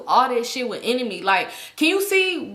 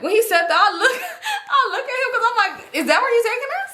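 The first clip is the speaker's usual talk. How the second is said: high, squeaky laughter through the words; laughing while talking; 11 semitones higher, faster than usual. Real, not acted. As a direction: crack up telling the story. Cracks up recalling her look.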